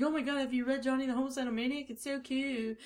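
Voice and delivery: fast, breathless fangirl gush; gushing teen fan. Retold or imitated. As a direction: rush it like an excited teen fan. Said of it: "They're like".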